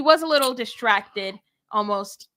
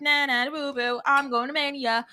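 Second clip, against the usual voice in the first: teasing nah nah boo boo; childish gloating taunt; taunting singsong; 4 semitones higher than usual. Retold or imitated. Rhea taunting as she leaves.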